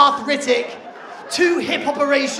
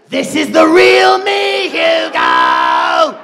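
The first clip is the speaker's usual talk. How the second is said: monstrous reveal; 3 semitones higher, 10 dB louder, much slower than usual. Retold or imitated. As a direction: roar the reveal. Grandma reveal voiced again.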